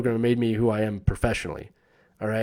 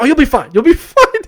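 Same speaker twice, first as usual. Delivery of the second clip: higher, loud, laughing through it; laughing reassurance; 11 dB louder than usual. Retold or imitated. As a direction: laugh it off, teasing. Advisor laughing off his worry.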